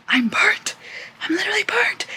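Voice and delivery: whispered complaint about the burn. Real, not acted. Late-night update to viewers about her forehead, whispering. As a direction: hush it, don't wake anyone. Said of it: "I can't talk that loud".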